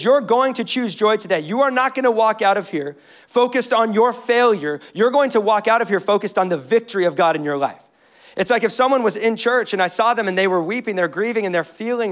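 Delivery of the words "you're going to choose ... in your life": commanding exhortation. Retold or imitated. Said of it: "Nehemiah commands them. He says".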